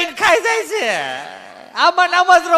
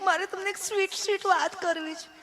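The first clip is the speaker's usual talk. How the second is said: coy sweet wife; 2 semitones lower, 12 dB quieter than usual. Acted. Wife coyly teases husband.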